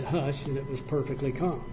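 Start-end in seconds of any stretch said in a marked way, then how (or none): 0.0-0.5 soft hush. Retold or imitated. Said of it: "And he just said".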